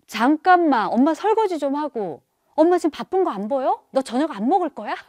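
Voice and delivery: loud, high nagging, building to a yell; hammed-up exasperated mother; scolding mom. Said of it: "아이를 혼내거나 또 막 다그치면서".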